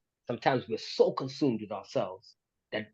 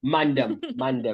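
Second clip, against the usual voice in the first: "Man them" in roadman slang; roadman accent; 3 dB louder, slower than usual. Shown as a demonstration. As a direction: put on a London roadman voice. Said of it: "you say man".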